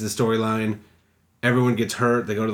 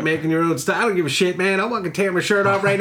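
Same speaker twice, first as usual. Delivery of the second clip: higher-pitched mock redneck rant; hick rant; 7 semitones higher than usual. Retelling a comedian's joke, ranting as a rural hick. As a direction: play up a country hick going off, pitched high. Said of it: "that hick accent that you do".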